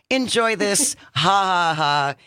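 lightly voiced mocking Mother Nature; taunting Mother Nature. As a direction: tease with a spelled-out mock laugh. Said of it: "Mother Nature always slaps back. It's like".

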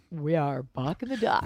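low-pitched radio host station ID. Shown as a demonstration. Co-host trying out a better radio voice, mock-deep announcer. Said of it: "a better radio voice, like".

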